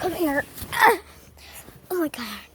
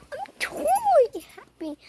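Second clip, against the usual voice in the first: much higher, louder mock happy voice; 10 semitones higher, 4 dB louder than usual. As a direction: chirp it as fake cheer. Mock answer as pet.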